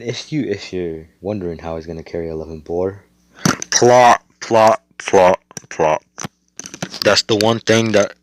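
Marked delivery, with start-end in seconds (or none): 3.7-6.0 "plot" punched loud, repeated; dramatic "plot". Shown as a demonstration. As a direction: hammer the word "plot" out like a reveal. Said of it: "It's called plot".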